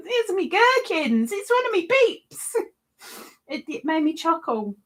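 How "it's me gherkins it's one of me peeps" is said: laughing. Real, not acted. Laughing at gherkin crochet joke.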